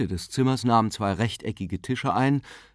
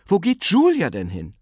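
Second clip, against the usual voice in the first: higher, louder testy question; almost irritated; 9 semitones higher, 6 dB louder than usual. A narrator's reading. Aunt watching her sister go downstairs, almost irritated. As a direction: ask it in exasperated surprise. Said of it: "sagte sie fast gereizt".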